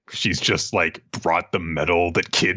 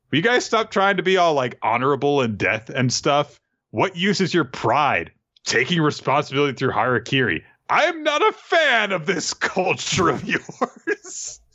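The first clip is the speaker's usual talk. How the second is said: mock berating; 5 semitones higher than usual. Usopp berating the samurai.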